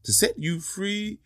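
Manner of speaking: slow, strained pleading snake; lightly voiced snake groaning for help. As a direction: beg slowly from under the rock. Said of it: "The snake groaned".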